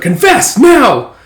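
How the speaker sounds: high, drawn-out command; slow loud demand. Retold or imitated. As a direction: boom it out slowly. Coworker interrogating.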